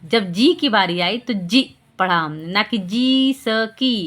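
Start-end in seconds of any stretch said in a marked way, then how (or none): 2.5-4.1 slow, broken-up जी स की, each syllable apart; wrong reading shown. Shown as a demonstration. Teacher showing parents how not to read जिसकी. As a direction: split जी स की into separate pieces. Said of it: "ऐसे नहीं पढ़ते हैं".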